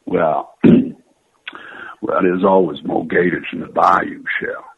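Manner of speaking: Gambit's Cajun drawl; lightly voiced Cajun charmer; Cajun accent. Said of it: "Gambit would say".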